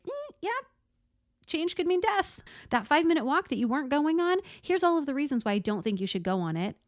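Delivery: high, wary voice of the nervous system, then fast; anxious nervous system voice. Pretend. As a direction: play the scared inner voice warning of danger. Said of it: "our nervous system is like".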